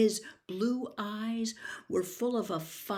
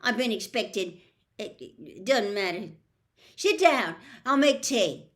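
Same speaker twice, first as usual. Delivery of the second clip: nervous rushed half-giant, rising loud on sit down; fumbling for words then a loud louder offer; flustered Hagrid; 6 dB louder than usual. Acted.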